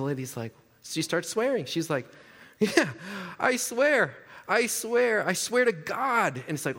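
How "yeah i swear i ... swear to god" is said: pleading suspect. Retold or imitated. Lady caught with drugs pleading.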